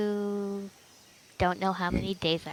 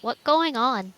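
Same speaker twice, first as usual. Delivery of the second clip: put-on Asian accent; 4 semitones higher than usual. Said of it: "says in a thick Asian accent".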